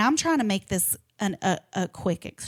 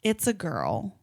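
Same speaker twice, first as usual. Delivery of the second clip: put-on "It's a girl" said softer and lower, savoring it; smug it's a girl; 4 semitones lower, 4 dB quieter, slower than usual. Narrator mimicking her ex announcing their daughter. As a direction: drop it low and pleased with yourself. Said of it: "He said it like".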